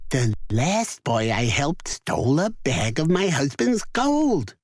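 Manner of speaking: lightly voiced wary wife; a hint of grudging suspicion; giant's wife. A narrator's reading. Wife refusing Jack, lightly voiced wary. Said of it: "she said".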